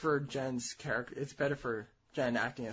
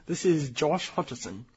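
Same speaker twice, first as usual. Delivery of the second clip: slow, louder mock self-introduction; Josh Hutcherson; 6 dB louder than usual. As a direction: introduce yourself as the star, slowly and firmly. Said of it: "Do you want me to do it then".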